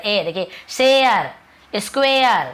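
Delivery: "शेयर" drawn out as shay-ar; teacher modelling the glide in "शेयर"; demonstrating vowel glide. Shown as a demonstration. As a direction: stretch the ay-uh in "शेयर" and "स्क्वायर". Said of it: "ए ऐसे ध्वनि में निकलता".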